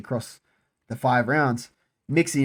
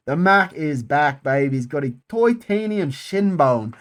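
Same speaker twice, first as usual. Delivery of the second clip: a rough Irish McGregor impression, slow and cocky; Conor McGregor accent; 3 dB louder than usual. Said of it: "Conor McGregor's fucking accent".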